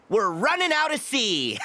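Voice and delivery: laughing it out, delighted. Acted. Captain laughs at running out of sea, laughing. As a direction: say it through a laugh.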